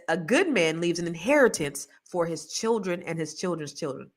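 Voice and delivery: quoted verse, fading off; scripture quote; reciting scripture. Shown as a demonstration. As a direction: read it like a Bible verse. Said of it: "The Bible says".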